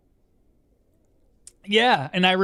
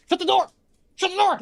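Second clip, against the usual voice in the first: shouting across the house; 11 semitones higher, much faster than usual. Real, not acted. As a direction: yell it through the house. Yelling to someone in house.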